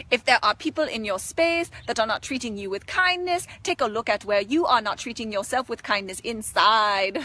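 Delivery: put-on Indian guru voice, measured delivery; playful Indian-accented spiritual teaching. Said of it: "It is like my Indian guru side".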